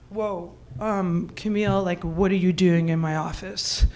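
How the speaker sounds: low, soft, hesitant man's reply; taken-aback David. Acted. David to woman bursting into his office, taken aback. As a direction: drop down low and quiet, warily puzzled. Startled David answers her outburst.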